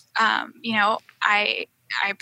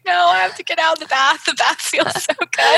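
high, fast, louder whimpering protest; near tears; 7 semitones higher, 3 dB louder than usual. Retold or imitated. In labor, not wanting to leave the bath, near tears and fast. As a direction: wail about leaving the warm bath. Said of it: "I almost started crying".

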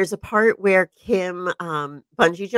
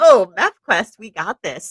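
confident; 2 semitones higher, 6 dB louder than usual. Retold or imitated. Acts out the confident older racers.

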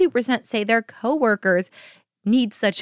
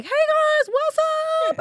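much higher, breezy hey guys; casual stoned greeting. Retold or imitated. Stoned girl greeting paramedics, breezy and carefree. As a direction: play it carefree and high. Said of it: "I was just normal high".

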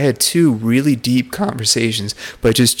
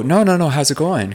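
higher-pitched, retold insistence; gently insistent check-in; 6 semitones higher than usual. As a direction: press past the polite answer, pitched up. Pressing past the polite answer, retold.

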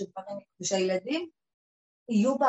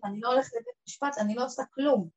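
a raised, insistent plea to God; retold loud plea; 4 semitones higher, 4 dB louder than usual. Woman recalls pleading aloud with God, raised insistent voice. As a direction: she tells God she won't go to court, half-crying it out.

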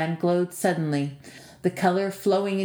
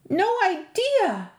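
much higher, slow despairing moan; 13 semitones higher, slower than usual. A narrator's reading. Andy gives up before the giant, moaning. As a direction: give up hope with a groan. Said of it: "Andy moaned".

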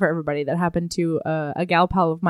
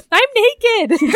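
high, louder panicky squeak; flustered panic; 4 dB louder than usual. Retold or imitated. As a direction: blurt it out in a fluster. Panicking in the shower.

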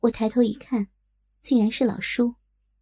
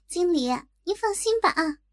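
put-on higher, chirpy girl's voice; cheery girl's reassurance; 7 semitones higher than usual. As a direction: reassure the boss brightly. Girl reassures manager. (小月高声俏皮地让经理放心)

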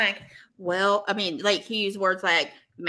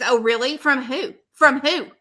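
mock demanding; 5 dB louder than usual. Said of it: "she said".

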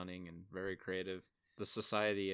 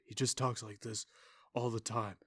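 a hint of a flat, lifeless murmur, a touch louder; Dane DeHaan's flat monotone; 2 semitones higher, 5 dB louder than usual. Reviewer mocking the lead actor's delivery to his co-host, flat monotone impression. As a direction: mimic a bored actor with no inflection. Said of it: "talks in whispers all the time".

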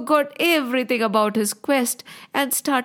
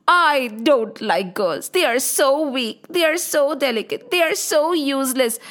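scornful demon; 4 semitones higher than usual. Acted. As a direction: sneer each complaint with lingering stress.

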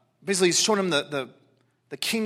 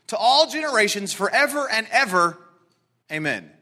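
scripture reading; 2 semitones higher than usual. Acted. Reads scripture aloud.

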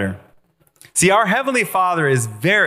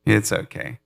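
soothing God, repeated; 4 semitones lower than usual. Pretend. God repeating comfort to a believer, light soothing. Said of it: "He's like".

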